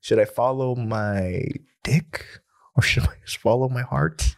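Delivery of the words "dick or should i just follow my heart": whispered mock dilemma. Asking his friend for advice, teasing whisper. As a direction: whisper it like a confession.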